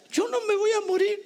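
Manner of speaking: desperate insistence. Retold or imitated. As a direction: cry out you won't die. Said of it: "y yo decía".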